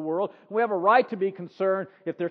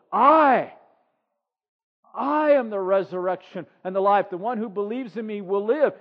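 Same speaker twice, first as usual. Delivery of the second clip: Jesus proclaiming; 4 dB louder than usual. Acted. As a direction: declare it, then ask gently. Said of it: "Jesus said to her".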